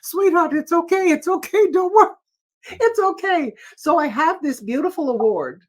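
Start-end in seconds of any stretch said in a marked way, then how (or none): 0.0-3.5 higher, gently reassuring; soothing comfort. Retold or imitated. The singer consoling the upset organiser, gently reassuring. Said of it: "trying to make him feel better".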